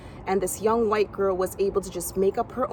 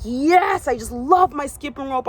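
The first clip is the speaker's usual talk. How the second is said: excited; 5 semitones higher, 4 dB louder than usual. Retold or imitated. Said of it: "and I'm like".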